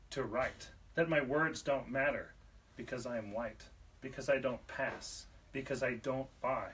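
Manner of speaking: spoken-word poem, emphatic line openings falling away; poetry reading. Acted. Poet challenging those who would define them, deliberate poetry reading. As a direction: press on each "Define me", pausing between phrases. Reads own poem aloud.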